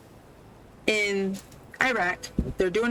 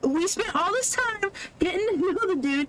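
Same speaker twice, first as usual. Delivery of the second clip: exasperated rant; 8 semitones higher than usual. Real, not acted. Ranting at the pointless opening.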